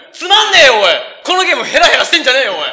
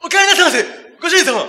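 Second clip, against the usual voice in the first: Takeshi impression; 5 semitones higher than usual. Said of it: "百点だな".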